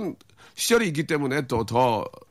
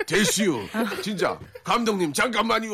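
high pleading impression; frantic plea; 9 semitones higher than usual. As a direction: beg the director, voice up high. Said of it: "더 화를 냈어요".

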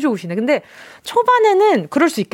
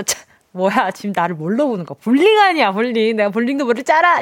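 발끈한 청취자 흉내; 2 semitones lower than usual. Retold or imitated. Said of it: "이렇게 생각하셨을 텐데".

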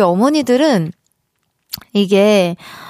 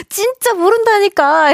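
high, drawn-out indignant whine; mock plea of innocence, pitched way up; wronged protest; 11 semitones higher than usual. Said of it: "얼마나 억울할까". (억울해하며 높은 소리로 항변)

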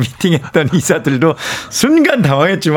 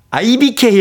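confidently blurted, pitched up; 7 semitones higher than usual. Retold or imitated. Wife answering her husband's question, confidently. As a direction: announce it with full assurance. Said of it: "아내가 당당하게".

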